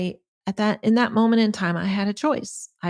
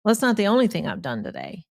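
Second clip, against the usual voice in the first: quick, curt comeback; mildly snippy retort, quickly; snarky response; faster than usual. Retold or imitated. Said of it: "what I call the snarky response".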